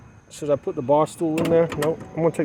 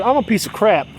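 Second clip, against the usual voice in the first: rising, louder, pleading despair; mother's despair; 5 semitones higher, 4 dB louder than usual. Retold or imitated. Imitating the mother as she cries that she gives up. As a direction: wail it out as the mother giving up. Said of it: "she said".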